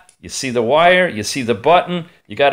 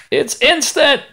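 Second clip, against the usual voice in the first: mock amazement; 12 semitones higher than usual. Mocking movie spider scene.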